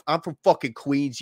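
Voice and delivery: a light New York Queens accent imitation; lightly doing a coworker's Queens New York accent. Imitating a lazy coworker from Queens, mild Queens accent. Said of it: "talked like this".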